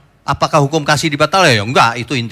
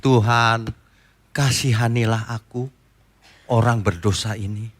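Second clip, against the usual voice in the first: humble tax collector. Retold or imitated. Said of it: "dia menepuk dadanya".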